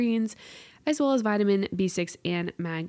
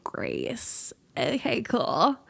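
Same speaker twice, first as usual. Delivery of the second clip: sarcastic okay cool; much slower than usual. Real, not acted. Sarcastic reaction to anxiety news.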